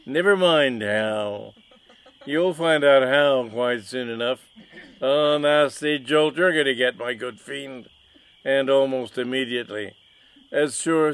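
loud, high, indignant villain; mustache twirling villain. Acted. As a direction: rant at the rival, outraged. Villain threatens rival.

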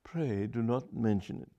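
understated cold reply; coldly. Acted. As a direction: freeze him out. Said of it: "said Charlotte coldly".

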